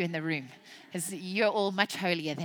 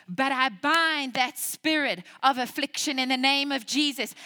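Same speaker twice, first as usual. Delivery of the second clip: bold rebuke; 4 semitones higher, 5 dB louder than usual. Retold or imitated. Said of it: "I say".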